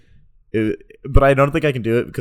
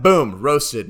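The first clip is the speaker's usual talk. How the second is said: loud, proud "Boom, roasted"; triumphant; 2 semitones higher, 6 dB louder than usual. Pretend. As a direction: deliver it like a winning punchline. Mock roast punchline.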